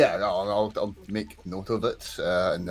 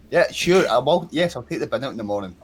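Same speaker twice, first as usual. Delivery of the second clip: distracted acknowledgement; 4 semitones higher, 6 dB louder than usual. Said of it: "when you're talking to someone who's working away".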